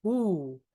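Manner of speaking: ooh with extra space in the mouth; deep oo. Shown as a demonstration. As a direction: round the lips deep for ooh. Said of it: "that vowel is so deep".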